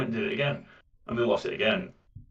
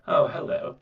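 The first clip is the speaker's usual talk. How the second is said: posh polite villain. Shown as a demonstration. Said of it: "So you either go full".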